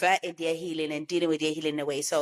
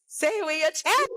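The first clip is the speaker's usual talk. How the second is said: emphatic louder; 10 semitones higher, 3 dB louder than usual. Pretend.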